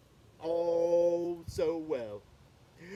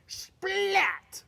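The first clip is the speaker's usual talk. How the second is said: dramatic whisper; 10 semitones higher than usual. Acted. Snowball hits the monster.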